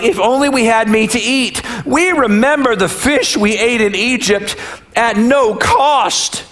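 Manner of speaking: hammed-up nostalgic complaint, stretched out at the end; mildly theatrical moaning; mock wailing. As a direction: lament like a grumbling crowd, lightly overdone. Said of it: "the Israelites started wailing".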